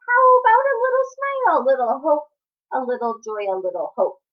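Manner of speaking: coaxing squid. Acted.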